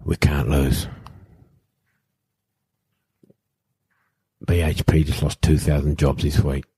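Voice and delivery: understated emotion, long heavy pauses; measured, halting delivery, lightly emotional; retold emotional speech. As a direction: retell a teammate's emotional plea with restraint. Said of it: "He's emotional".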